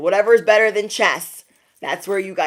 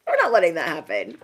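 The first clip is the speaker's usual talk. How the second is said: said through a laugh; 2 semitones lower than usual. Real, not acted. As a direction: laugh while you insist. Repeated, first straight then laughing.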